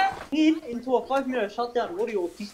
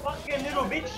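swearing tirade; 3 semitones higher than usual. Real, not acted. Raging at zombies while gaming.

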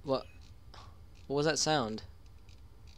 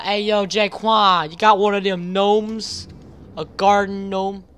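calling to Jaquan; 5 semitones higher, 10 dB louder than usual. Retold or imitated. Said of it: "We're like".

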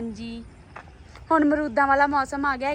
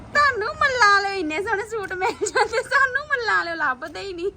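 laughing mock envy; 6 semitones higher than usual. Real, not acted. Mock envy about suits.

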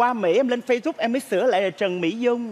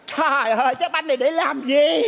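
exasperated dismay; 3 semitones higher than usual. Retold or imitated. Child recalls dismay at tiny ball.

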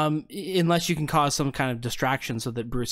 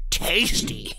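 tasty whisper; 5 semitones higher than usual. Acted. GM voices fish folk.

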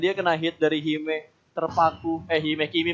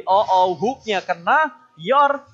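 excited play call; 5 dB louder, much slower than usual. Real, not acted. Caster hypes a hook.

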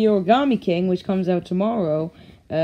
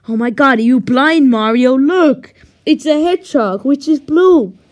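exasperated; 3 semitones higher, 6 dB louder than usual. Acted. Luigi exasperated at Mario's blindness.

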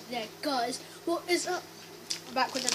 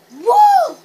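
excited cheer; 13 semitones higher, 20 dB louder than usual. Real, not acted. Celebrating success.

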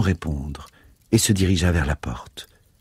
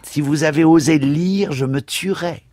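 put-on louder, higher cry of a desperate boy; retold threat; 10 semitones higher, 4 dB louder than usual. Priest quoting the boy's threat, higher and louder. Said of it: "Il nous a même dit".

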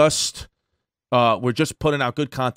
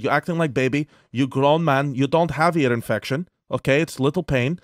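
lightly imitated Russian accent; Russian doctor. Doctor dismissing a grown man's earache, light Russian accent. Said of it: "had a nice Russian doctor".

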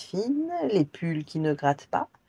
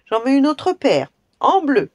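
loud, demanding giant voice; 9 semitones higher, 8 dB louder than usual. Acted. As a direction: boom out the order. Giant demands more shoes.

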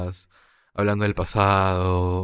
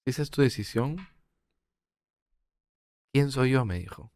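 mother's tearful words. Retold or imitated. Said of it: "me mira a los ojos llorando y me dice". (la madre le dice entre lágrimas, en voz baja y contenida)

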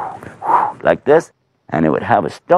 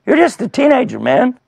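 high-pitched, dismissive objection; incredulous soldiers; 12 semitones higher than usual. Retold or imitated. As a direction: scoff in a raised, high voice. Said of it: "They said".

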